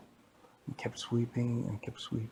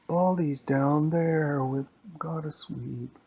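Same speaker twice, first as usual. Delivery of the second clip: slow, higher storybook character; slow, raised playful voice; Playtime's voice; 5 semitones higher, 3 dB louder, slower than usual. Acted. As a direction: call it out in a drawn-out singsong.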